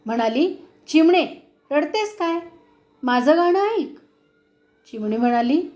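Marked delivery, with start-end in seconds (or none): 0.9-3.9 scolding. Acted. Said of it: "ती चिमणीला रागावली".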